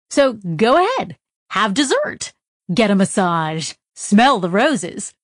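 upbeat, salesy message reading; cheery manual voice. Acted. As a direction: read it like a friendly welcome note.

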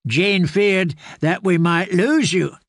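a hint of a gentle old caretaker; kindly old man. Grey man reports her fever.

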